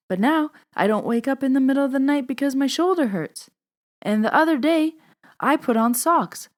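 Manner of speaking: a hint of grandma reporting her aches; imitated grandma. Grandma tells granddaughter about her shoulder, lightly imitated grandma. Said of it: "And she said".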